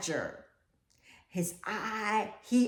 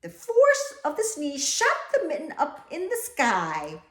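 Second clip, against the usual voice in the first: laughing; 5 semitones higher, 3 dB louder than usual. Acted. Reading through laughter.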